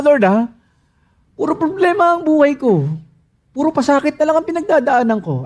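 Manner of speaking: high, crying lament to the Lord; anguished complaint. Acted. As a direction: cry out that you're overwhelmed. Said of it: "ginamit yung same word, pero baliktad".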